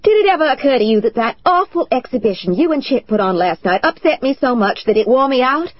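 high, loud furious outburst; screaming. Acted. Wife screaming back at her husband after his accusation, high and furious. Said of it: "I screamed".

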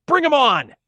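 high, loud defiant bellow; full-force shout. A narrator's reading. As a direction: shout as loud as you can. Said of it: "shouted out as loud as he could".

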